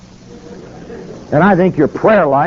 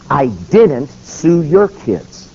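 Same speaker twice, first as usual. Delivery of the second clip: put-on "I didn't sue your kids" slow, word by word; emphatic denial; much slower than usual. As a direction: spell out "I didn't sue your kids" with heavy, spaced stresses. Acted denial in retold confrontation.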